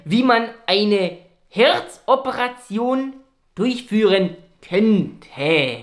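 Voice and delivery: speaking through a mask; muffled doctor voice under mask; muffled behind mask. Acted. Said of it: "bitte einmal ohne Maske".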